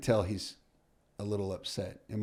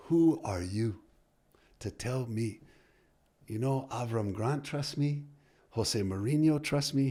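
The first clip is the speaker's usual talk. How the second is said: indignant; 3 semitones higher, 5 dB louder than usual. Retold or imitated. Angry star player confronts coach.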